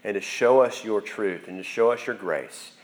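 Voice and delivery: earnest spoken prayer, unhurried and sincere; closing prayer. Real, not acted. Pastor praying over students at end of sermon, earnest prayer voice. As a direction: pray aloud for the students, gently pleading.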